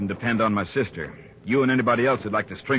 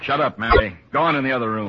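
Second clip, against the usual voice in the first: angry order; 5 dB louder than usual. Acted. Brother silencing his upset sister.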